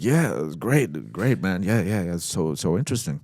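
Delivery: retold polite bluffing, repeating himself; feigned enthusiasm. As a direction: gush unconvincingly to cover your doubts. Feigns liking script he found weird.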